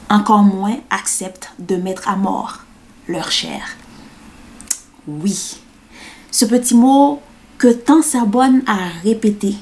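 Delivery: measured spoken-word delivery with long pauses; poem recital. Acted. Performing her poem about saying yes, measured spoken word. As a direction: recite it line by line, deliberately spaced.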